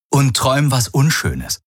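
pleased at the victim's misery; gloating. A narrator's reading. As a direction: taunt with a gloating smile. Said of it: "mit schadenfrohem Lächeln".

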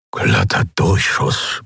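slow, unvoiced disbelieving murmur; breathless mutter. A narrator's reading. Shaken crewman murmuring to himself after the hit, breathless. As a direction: breathe it out, hardly believing it. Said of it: "murmelte er".

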